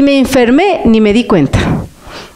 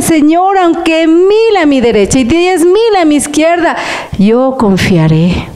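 higher, fervent prayer to the Lord; praying aloud; 5 semitones higher than usual. Shown as a demonstration. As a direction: pray it out with trust. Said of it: "Pero si usted dice".

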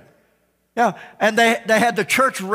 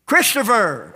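calling out; 3 semitones higher, 4 dB louder, slower than usual. Acted. Shepherd calling sheep by name.

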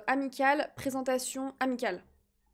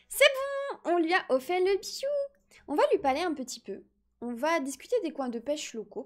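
put-on baby voice; 2 semitones higher than usual. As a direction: talk like a little toddler. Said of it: "mon gage, c'est de faire une voix de bébé".

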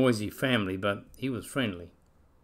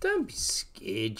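slow, gentle comfort; reassuring; 4 dB quieter, much slower than usual. Acted. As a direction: soothe him slowly. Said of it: "she said".

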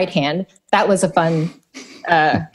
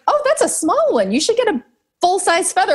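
imitating Carol; 11 semitones higher than usual. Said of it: "he's like".

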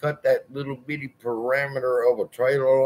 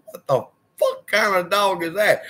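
higher, blurted out in shock; shocked disbelief; 9 semitones higher than usual. Retold or imitated. Landlord seeing the tenant's huge dog, shocked. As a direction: gape at a giant dog and blurt it.

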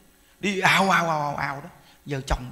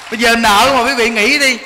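laughing; 3 semitones higher, 8 dB louder than usual. Real, not acted. Speaking while laughing.

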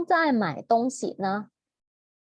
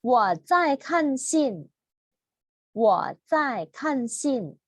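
each Chinese sentence said very slowly, syllable by syllable; slow model reading; much slower than usual. Shown as a demonstration. Teacher reads sentences slowly for students to repeat. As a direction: read it out slowly so the class can follow. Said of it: "teacher reads sentences slowly".

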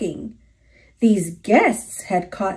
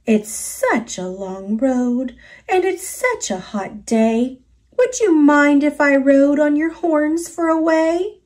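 a small bug calling up cheerily; 4 semitones higher than usual. Acted. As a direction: bingle bug calling to the moose for a ride, light bug voice. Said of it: "The bug called out".

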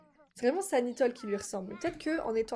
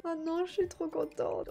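happy tears; 6 semitones higher than usual. Real, not acted. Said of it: "Je suis trop sensible".

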